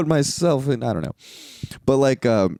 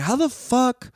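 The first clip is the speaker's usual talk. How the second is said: incredulous; 4 semitones higher than usual. Retold or imitated. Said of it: "I was like".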